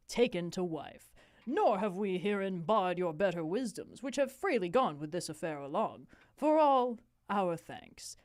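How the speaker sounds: lightly declaimed royal speech; formal dramatic reading. Acted. King addressing his court on Norway, formal dramatic reading. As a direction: read it as stately stage verse. Reads the King's speech aloud.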